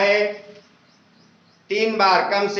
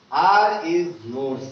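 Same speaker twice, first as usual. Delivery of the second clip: slow demo; much slower than usual. Shown as a demonstration. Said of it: "A double L R I S is".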